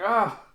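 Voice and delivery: loud high scream of fright; startled shriek; frightened yelp. Retold or imitated. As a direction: yelp in terror. Ito cries at needle threat.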